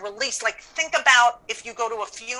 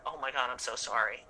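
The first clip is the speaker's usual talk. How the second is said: lower, much softer condolence; quiet sincere sympathy; 8 semitones lower, 10 dB quieter than usual. Retold or imitated. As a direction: say it gently to a grieving friend. Consoling friend after sister's death.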